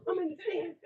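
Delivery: ordinary talk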